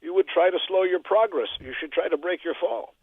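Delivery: measured rhyming verse with punched line ends; poem recital. Acted. Radio poet reciting his weekly poem for the host, poem recital. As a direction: recite comic political verse in a steady metre.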